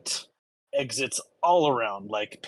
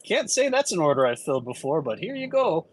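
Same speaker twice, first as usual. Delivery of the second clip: bartender voice; 4 semitones higher, 4 dB louder than usual. Acted. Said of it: "and say".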